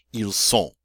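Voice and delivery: "Ils sont." with nasal o, no n; silent N. Shown as a demonstration. Teacher corrects the wrong take, N left silent. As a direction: finish "sont" on the nasal vowel. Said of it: "We don't hear the N".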